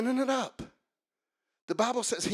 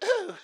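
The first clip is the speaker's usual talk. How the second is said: startled ooh; 11 semitones higher than usual. Acted. Acts dodging a huge raindrop.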